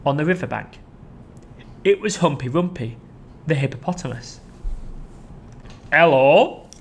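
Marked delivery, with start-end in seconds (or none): 5.9-6.7 louder greeting, rising; hippo hello. Acted. Humpy Rumpy greeting the crocodile. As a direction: call out a cheery hello.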